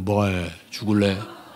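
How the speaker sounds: voice made to sound like a man's. Describing how women's voices change over time, in a man-like voice. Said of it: "나중에 점점 남자 목소리가 되잖아요".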